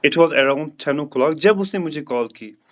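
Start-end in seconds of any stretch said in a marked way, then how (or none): 0.1-1.3 slow model sentence. Shown as a demonstration. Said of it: "teacher models the answer".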